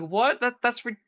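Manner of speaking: high, incredulous repeat; hammed-up surprise; mock shocked. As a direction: act floored by the news. Interviewers shocked at confession.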